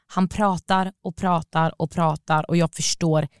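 slow, word by word, then stretched; laboured monotony. Retold or imitated. Storyteller endures an hour's car ride, laboured and slow. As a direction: drag it out to show endlessness. Mimics endless incomprehensible talking.

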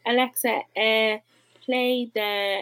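hesitant mock device command, dragged out; muddled child's command. Imitating Lily talking nonsense to Alexa, halting command. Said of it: "she doesn't make a whole lot of sense".

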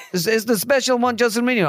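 Mourinho impression. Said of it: "Mourinho impression".

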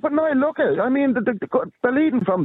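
rising exasperation; exasperated. Real, not acted. Heated complaint about government.

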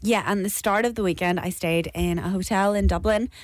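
tired voice giving out. Real, not acted. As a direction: talk through a worn-out voice. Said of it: "Sorry, I'm losing my voice".

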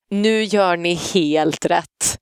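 slow, drawn-out mock approval; acted backseat commentary. Passenger in the back seat commenting on parents, slow mock approval. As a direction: imitate slow, pointed praise from the back seat. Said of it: "sitter hon i baksätet så här och bara".

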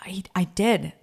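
put-on whispered, timid small boy; shy whisper. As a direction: hush it out like a shy kid. Mother voices her son confessing. (blyg viskning som en liten pojke)

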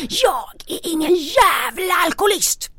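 high shout, hurled at him; retold scream. Woman yelling at her therapist that she is no alcoholic, screaming. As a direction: yell it at the therapist in denial. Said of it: "skriker åt honom".

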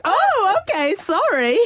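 high, startled mock apology; flustered apology. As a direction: squeak out an embarrassed apology, acting caught out. Retold flustered apology when caught engrossed.

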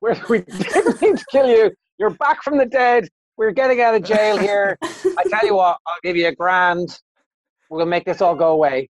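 high, sing-song fake reassurance; mock-nice gangsters. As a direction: pitch it way up like a sweet-talking hood.

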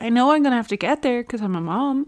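talking through braces. Real, not acted. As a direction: mouth full of braces. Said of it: "my braces are really bad this morning".

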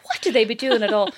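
whispered through laughter; laughing whisper. Retold or imitated. Mocking what fans do, whispered with laughter. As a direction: breathe the question out giggling.

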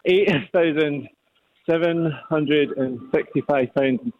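nervous and out of breath after lifting; breathless, shaky-nerved guess. Real, not acted. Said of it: "You sound out of breath and you sound nervous".

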